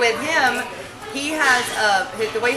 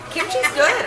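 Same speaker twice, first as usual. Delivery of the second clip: giggling, higher pitch; laughing; 10 semitones higher, 6 dB louder, slower than usual. Real, not acted. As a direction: laugh as you say it. Laughing at the kimchi joke.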